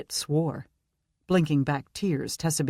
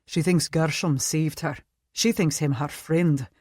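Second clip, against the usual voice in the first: put-on Scottish accent. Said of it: "Scottish accent".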